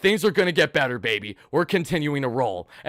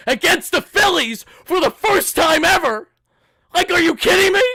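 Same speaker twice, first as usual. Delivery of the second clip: disbelieving shout; 11 semitones higher, 6 dB louder than usual. Real, not acted. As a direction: yell it in disbelief. Disbelief at first-ever matchup.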